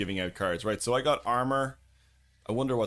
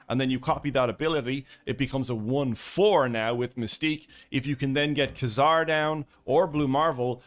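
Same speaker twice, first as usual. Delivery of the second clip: video intro presenting; 4 dB louder than usual. Real, not acted. Streamer recording the intro for his deck video, presenting. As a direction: present it to camera with punched key words.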